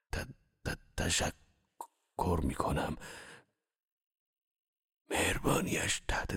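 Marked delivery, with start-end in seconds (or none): 0.1-3.0 slow halting stammer on the first syllable. Acted. Grateful beaten man stammers thanks to Shams, slow halting stammer. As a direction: stumble over «تشکر» before getting it out. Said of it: "منمن کنان گفتم".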